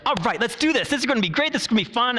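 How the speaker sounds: high, bubbly cheerleader pep; excited cheerleader therapist. Retold or imitated. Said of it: "really excited cheerleader type physical therapists".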